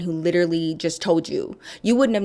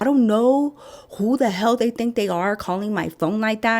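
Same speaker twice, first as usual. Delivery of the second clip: angry husband; 4 semitones higher than usual. Retold or imitated. Husband fuming about the clinic calling him. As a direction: let the husband's irritation boil over. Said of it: "and he was mad".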